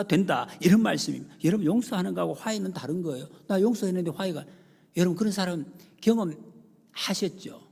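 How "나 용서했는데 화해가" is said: ordinary delivery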